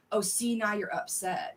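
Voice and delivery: slow, mildly accusing mimicry; accusatory. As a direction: imitate someone pointing out a fault, slowly. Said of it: "an accusatory tone".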